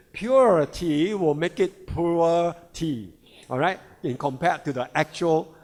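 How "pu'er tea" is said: "pu'er" said slowly as poo-er; "pu'er" in two slow syllables, poo-er; China's pronunciation. Shown as a demonstration. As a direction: stretch "pu'er" with no y sound. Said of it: "pronounced as poor".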